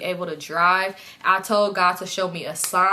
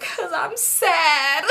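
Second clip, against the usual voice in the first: high, drawn-out fake wail; mock crying; 8 semitones higher, much slower than usual. Telling friends why she's trying to cry, mock sobbing. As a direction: imitate a forced cry, stretching it out slowly. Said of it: "Why are you trying to cry?".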